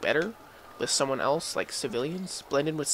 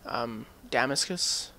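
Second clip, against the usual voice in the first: slow unsure try. Shown as a demonstration. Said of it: "how to say that".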